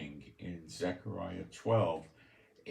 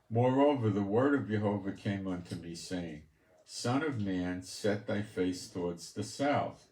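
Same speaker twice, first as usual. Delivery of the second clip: lifted, declaiming bible voice; solemn scripture reading. Acted. Preacher reading Ezekiel to his listeners, solemn declaiming. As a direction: proclaim each phrase like holy writ. Reads scripture aloud to congregation.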